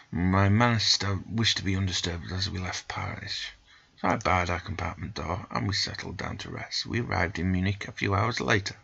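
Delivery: measured storybook reading of the travel tale; story narration. A narrator's reading. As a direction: read it like an adventure novel. Reads game story narration.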